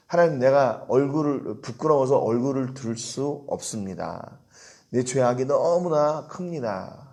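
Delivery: lightly voiced humble confession, slowing at the end; a hint of a penitent bowing before God; ashamed prayer. Ezra confessing before God, mildly ashamed prayer. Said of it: "이렇게 기도해요".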